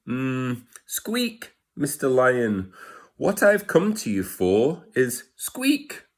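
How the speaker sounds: a tiny voice trying to sound big; squeaky mouse voice. Acted. Mouse asking the lion for help, high squeaky voice.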